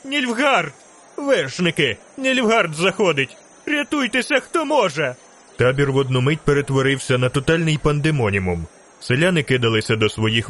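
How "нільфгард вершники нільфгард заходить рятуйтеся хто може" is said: narrator's thin high cry warning everyone to flee; piercing shriek. A narrator's reading. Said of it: "пронизливий вереск". (пронизливий панічний вереск)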